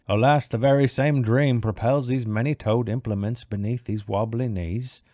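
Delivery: put-on theatrical voice of a dreamer; sighing character. Small round man sighing over his dream, theatrical lament. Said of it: "he sighed".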